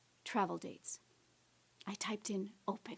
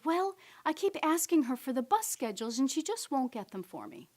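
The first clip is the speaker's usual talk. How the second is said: frustrated; 4 semitones higher, 4 dB louder than usual. Retold or imitated. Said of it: "she was really frustrated".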